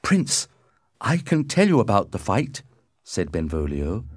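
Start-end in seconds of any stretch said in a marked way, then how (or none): 0.0-2.6 higher-pitched character voice; Benvolio's appeal. A narrator's reading. Benvolio offers the Prince his account, voice raised in pitch. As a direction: speak up anxiously to a ruler.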